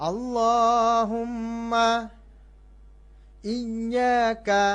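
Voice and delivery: ইয়্যাকা high, loud and slow on the ya; stress the doubled ya. Shown as a demonstration. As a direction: lean hard into ইয়্যাকা. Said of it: "জোর দিয়ে বলতে হয়".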